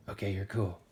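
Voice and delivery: low, offhand guard voice; killer T cell. Acted. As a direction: wave them through in a low voice. Killer T cell clears second cell.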